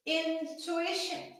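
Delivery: usual speaking voice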